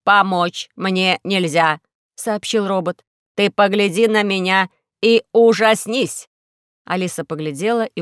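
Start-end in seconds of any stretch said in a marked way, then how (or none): 0.0-6.3 slow, loud, heavy robot voice; a weary robot, louder and slow; complaining injured robot, slow and loud. Acted.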